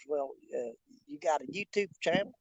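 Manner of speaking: put-on low, soft country hick accent; put-on country hick talk. Man in elevator asks a stranger, put-on country hick accent. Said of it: "started talking like that right there".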